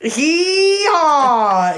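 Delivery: laughing it out high. Real, not acted. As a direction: giggle through the words. Reading note, laughing.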